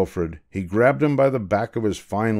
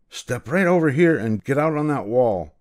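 snapped; 4 semitones higher than usual. Acted. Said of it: "snapped the Grand Duke Wilfred".

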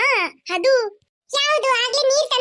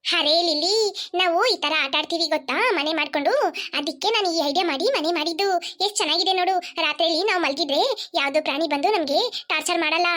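put-on a lightly lowered girl's voice, proudly explaining; lower-voiced girl Reshma; 5 semitones lower than usual. Reshma proudly shows Lilli the house, in a lower girl's voice. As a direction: keep it lower and proud of her idea.

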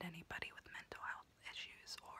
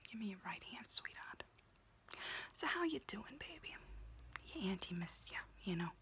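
whispering auntie roleplay. Acted. Auntie whispering to her niece while doing her nails, in a confiding unvoiced whisper. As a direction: whisper close and chatty like a kooky aunt doing your nails.

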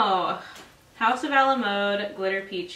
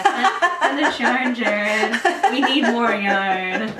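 mock plea; 2 semitones higher, 8 dB louder, slower than usual. Joking plea to sponsor.

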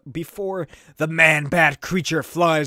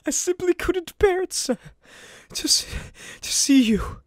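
higher, pleading butler voice; Alfred voice; 14 semitones higher than usual. Acted. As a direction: beg your master gently, voice raised high. Alfred voice upset.

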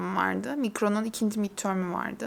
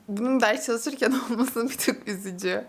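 nervous laugh. Real, not acted. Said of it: "sinirden gülüyorum".

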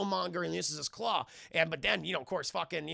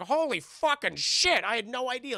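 a touch of stunned wonder; mock amazement; 6 semitones higher, 5 dB louder than usual. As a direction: gape in hammed-up awe. Martin Freeman amazed.

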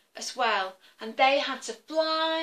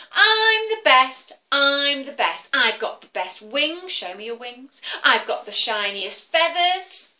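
boastful eagle; 3 semitones higher, 8 dB louder than usual. Acted. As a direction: crow it out like a show-off eagle. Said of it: "What's he say, everybody?".

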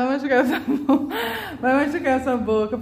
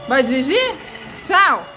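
sing-song bye; 3 semitones higher, slower than usual. Real, not acted. Mother says bye to the baby driving, sing-song.

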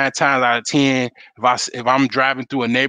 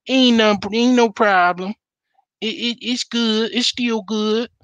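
imitating the other frogs; 8 semitones higher than usual. The other frogs telling you the boiling water is fine, in a high mocking voice. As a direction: pitch way up and coax the frog to stay in the pot. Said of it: "the other frogs around you, like".

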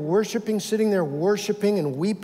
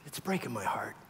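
grieving God; 6 semitones lower, 9 dB quieter than usual. Acted. God's grief voiced.

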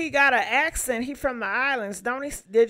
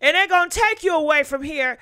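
yelling at screen; 5 semitones higher, 7 dB louder than usual. Real, not acted.

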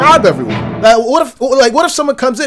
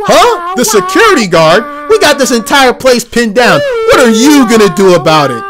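scoffing robber; 2 semitones higher, 4 dB louder than usual. Acted. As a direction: taunt like a cocky stick-up man. Cocky robber scoffs at guard.

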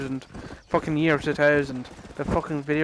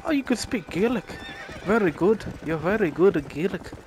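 higher-pitched imitation of an old man; 3 semitones higher, 3 dB quieter, faster than usual. Old man in the bar praising his Gaelic, mock old-man voice. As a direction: put on an old local's lilting voice. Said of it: "there was this old man".

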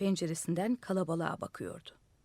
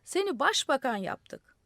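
raised, slow announcement; calling out; 6 semitones higher, 4 dB louder than usual. A narrator's reading. Crowd telling the madman of his new post, calling out. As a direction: call it up slowly and higher. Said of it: "diye bağırdılar".

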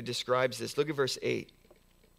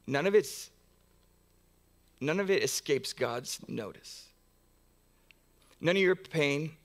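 normal talking voice

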